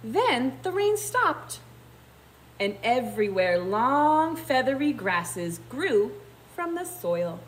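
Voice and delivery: put-on expressive, measured reading to children; story narration. A narrator's reading. Teacher reading how the grass grew, storybook narration. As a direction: stretch the key words for small listeners.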